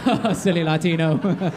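slow, giggly mock audience voice; giggling. Comic mimicking audience members giggling at him, slow and giggly. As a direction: giggle through it lightly. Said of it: "giggle like".

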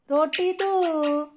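"रोटी दो" drawn out very slowly, syllable by syllable; slow teaching demo. Shown as a demonstration. Owner modelling words for the parrot, very slow drawn-out "रोटी दो". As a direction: stretch "रोटी दो" slowly so the bird can copy it. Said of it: "mummy, रोटी दो".

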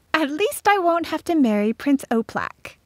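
put-on high-pitched girl's voice; relieved girl. A narrator's reading. Florette is spared marrying Prince Oplak, relieved.

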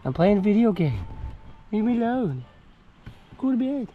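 exasperated pet scolding. Real, not acted. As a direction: shoo away a pestering animal. Fending off the pestering goat.

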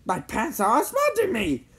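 high-pitched cry for help. A narrator's reading. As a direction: cry out as if being smothered. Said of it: "he cried".

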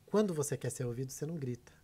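hushed, controlled voice; speaking low. Shown as a demonstration. Guest showing how to be heard without shouting, low and hushed. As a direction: drop your volume so they must lean in. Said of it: "Você fala baixo".

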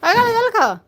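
high, cooing question to the bird. Real, not acted. Baby talk to the pet bird. (উঁচু আদুরে গলায় পাখির সঙ্গে কথা)

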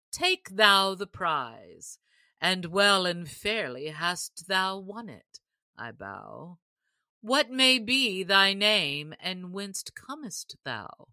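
the sheriff grandly crowning the winner; sheriff's voice. Acted. Sheriff addressing the stranger archer, lightly voiced and proud.

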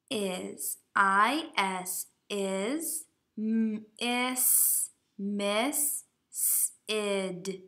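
decode it sound by sound, haltingly; sounding out slowly. Shown as a demonstration. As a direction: sound out each word like a beginning reader. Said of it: "So the sentence should say".

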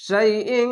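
"শাইইন" ending in a long nasal hum; chanted "শাইইন", final nasal stretched out; ikhfa ghunna. Shown as a demonstration. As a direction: hold the ন of শাইইন through the nose. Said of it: "এখানে ইকফা গুন্না".

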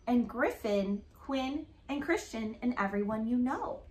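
lively picture-book read-aloud; reading to children. Acted. Mom reading an alphabet book to her daughter, storytelling voice. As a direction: read it like a storybook for a little girl.

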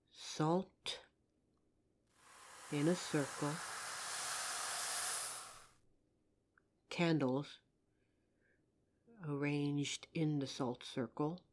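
soft, hushed spell-casting chant; hushed séance chant with a measured rhyming cadence; quiet ritual incantation. Acted. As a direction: call the spirit in low and quiet, like a rite. Performs a ritual summoning incantation.

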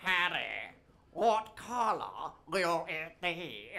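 slow, sinking, hinting Queen; mock Queen. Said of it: "She said".

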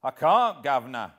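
very high, loud whining plea; beggar's whine. Acted. Hero posing as beggar to old villain, loud whine. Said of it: "in a real beggar's whine".

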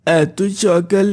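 groggy, starting with a sleepy hum; just woken up. Acted. Sabbir woken by Abdullah's call, sleepy. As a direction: answer as if roused from sleep. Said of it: "তোর ডাকে ঘুম থেকে উঠলাম".

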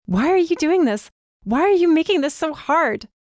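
high, loud, desperate shout. A narrator's reading. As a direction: hurl the questions at him in anguish. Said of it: "I shouted".

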